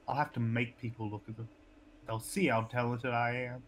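put-on lightly Southern-accented character voice; a hint of Southern character voice. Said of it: "that more southern voice".

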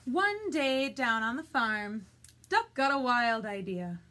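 put-on loud, measured storytelling to young children; picture-book narration. A narrator's reading. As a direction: read it out as a lively picture-book opening. Reads picture book aloud.

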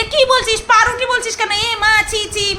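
mock the kids teasing the girl; mocking bully. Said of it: "মেয়েটাকে বুলি করবে".

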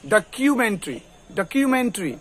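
ডকুমেন্টারি as "da-kyu-men-tri", unaspirated k; plain "kyu" in ডকুমেন্টারি, ending in "tri"; hard k variant. Shown as a demonstration. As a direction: say ডকুমেন্টারি as "dakyumentri". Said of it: "এরকম করে ক যদি বলি".

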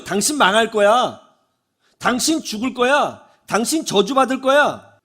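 mildly acted prophet's threat; doom pronouncement. Preacher mimics Jonah's unwelcome message to Nineveh, doom pronouncement.

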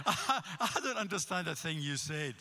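put-on American accent. Old man complaining to a visiting Scottish preacher, American accent. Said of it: "he said in American".

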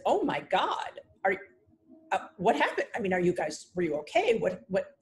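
flustered, stumbling string of questions, acted out; retold alarm. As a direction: retell a stunned, concerned reaction. Retells her alarmed reaction to news.

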